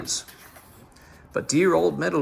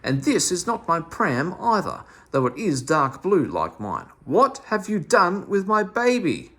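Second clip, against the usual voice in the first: fierce mother; 5 semitones higher, 4 dB louder than usual. Acted. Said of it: "like a fierce mother cat".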